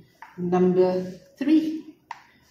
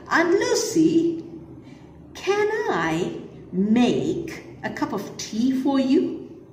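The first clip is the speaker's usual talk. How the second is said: put-on boy's question; 4 semitones higher than usual. Teacher voices boy's question.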